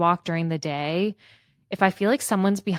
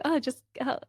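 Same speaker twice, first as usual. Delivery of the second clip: high-pitched, fumbling cover-up; flustered fake call; 9 semitones higher, 5 dB louder than usual. Caught faking a phone call, flustered high-pitched excuse. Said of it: "when you're pretending to make, like, a fake phone call".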